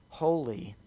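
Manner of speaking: a hushed unvoiced holy, fading out; awed whisper. Shown as a demonstration. Preacher awestruck by God's holiness, whispering. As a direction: breathe the last holy almost silent.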